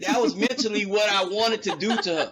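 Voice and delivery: laughing through the admission. Real, not acted. Admitting to friends with a real laugh. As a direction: chuckle it out, caught exaggerating.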